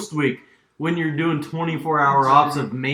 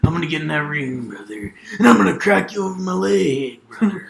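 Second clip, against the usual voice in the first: wrestling promo. Pretend.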